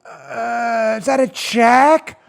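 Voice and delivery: lightly voiced baffled voter; hesitate, then drag out the puzzled question; facetious confusion. Host imitating voters stumped by a check box, halting mock confusion. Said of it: "I'm being facetious here and silly".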